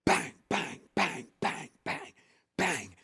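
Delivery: spoken bangs, short and evenly spaced; imitated banging. Storyteller acting out a noise heard at night, imitated banging. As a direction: punch out bang after bang like pounding.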